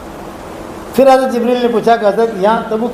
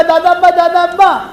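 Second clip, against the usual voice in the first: lightly voiced child, pitched up; a hint of an eager grandchild; imitated small child; 5 semitones higher than usual. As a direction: call to grandpa as a little child would. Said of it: "ہمارے چھوٹے چھوٹے بچے ہیں نا".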